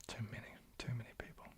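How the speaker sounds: very soft, near-whispered aside; hushed aside. Real, not acted. Streamer reacting to the subscriber goal, hushed. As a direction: drop to a soft murmur.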